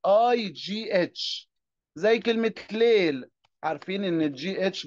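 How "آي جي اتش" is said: آي جي اتش spelled out slowly, letters drawn out; stretched long i. Shown as a demonstration. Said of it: "كمان ممكن نمد في الآي".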